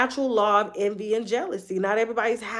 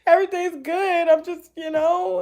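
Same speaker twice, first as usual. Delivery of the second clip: retold crying; 8 semitones higher, 4 dB louder than usual. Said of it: "I was just crying".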